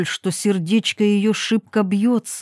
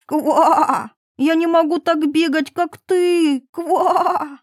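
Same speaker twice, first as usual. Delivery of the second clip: higher frog voice crying out after her; a desperate little frog calling Wait!; 7 semitones higher, slower than usual. Acted. Frog shouting after the running princess.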